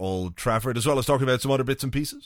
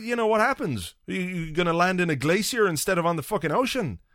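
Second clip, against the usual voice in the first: higher, fed-up ranting; exasperated rant; 4 semitones higher than usual. Retold or imitated. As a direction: vent like a nervous flyer who's had enough. Exasperated rant about pilot's updates.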